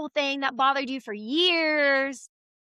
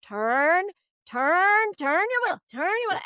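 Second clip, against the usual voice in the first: urgent coaching; 7 semitones higher, slower than usual. Retold or imitated. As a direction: call out the steering orders in a panic. Mom coaching daughter backing car.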